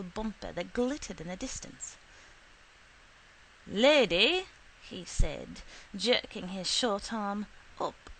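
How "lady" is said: emphatic call. Acted. Shiflet appealing to her.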